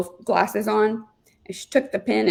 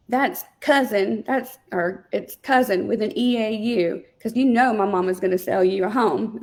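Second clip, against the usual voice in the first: put-on little Southern girl; 2 semitones higher than usual. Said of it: "in her Southern s-, voice".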